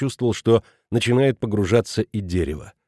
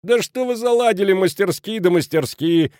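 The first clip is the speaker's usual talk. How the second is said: much higher, exasperated outburst; 9 semitones higher than usual. A narrator's reading. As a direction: lose patience, pitch shooting up. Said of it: "не выдержал Кранер".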